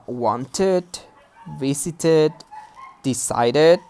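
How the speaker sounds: "wanted", "visited", "decided" each ending in an extra -id syllable; full -ed ending. Shown as a demonstration. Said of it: "which is correct".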